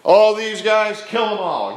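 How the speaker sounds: loud, high command through a laugh. Retold or imitated. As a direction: bark it out half laughing. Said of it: "He's like".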